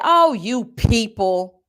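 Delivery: slow, drawn-out imitation of a dismissive voice; mocking the clerk. Quoting the clerk's insult in a slow mocking voice. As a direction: stretch it out like a condescending clerk. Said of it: "She said".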